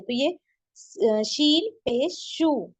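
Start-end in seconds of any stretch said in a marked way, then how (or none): 1.1-2.7 शू said with a hissing sh; whistled sh sound. Shown as a demonstration. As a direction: draw out शू slowly with a whistle. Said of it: "सीटी की आवाज होती है". (शू सीटी वाली आवाज़ में)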